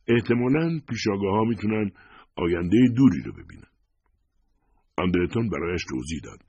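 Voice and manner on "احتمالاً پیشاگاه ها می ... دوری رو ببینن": mildly amazed, pitched up at the start. A narrator's reading. Visitor marvels at how far the precogs see, mildly amazed. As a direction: voice a touch of wonder at the discovery. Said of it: "ویتور با شگفتی گفت".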